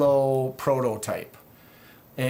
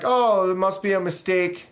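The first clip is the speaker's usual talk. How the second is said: mimicking company rep; 5 semitones higher, 3 dB louder than usual. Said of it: "they're like".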